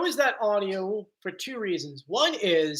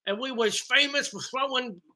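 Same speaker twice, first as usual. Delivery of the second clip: higher Southern accent mimicking the clip; 4 semitones higher than usual. Host repeating the clip's line, Southern accent. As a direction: echo it with a big Southern accent. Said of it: "you can hear that massive accent".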